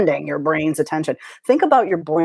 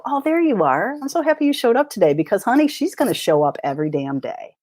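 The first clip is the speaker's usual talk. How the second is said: mock sweet greeting; 6 semitones higher than usual. Acting out greeting inner critic.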